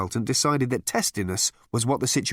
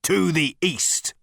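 higher, slow, portentous; significant; 7 semitones higher, slower than usual. A narrator's reading. Number Two locating the continent, significant. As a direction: draw it out meaningfully. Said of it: "narrowing his eyes significantly".

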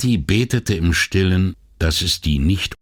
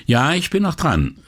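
raised pitch, mild call; 10 semitones higher than usual. A narrator's reading. Boatman telling his friend he is still on the line, mildly calling out. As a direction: call high into the phone. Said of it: "rief Foa ins Telefonino".

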